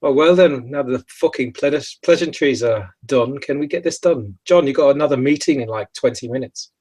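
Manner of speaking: impatient, brash cut-in; mildly rude, hurried interrupter; rude interruption. Acted. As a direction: barge in, wanting it over with. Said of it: "just sort of rudely interrupts".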